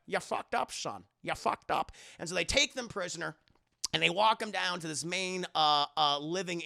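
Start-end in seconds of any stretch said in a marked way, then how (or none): 0.1-1.9 lightly voiced disapproving Scottish father; Sean Connery. Father chides son after betrayal, light impression. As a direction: chide with a slushy s. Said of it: "Sean Connery's like".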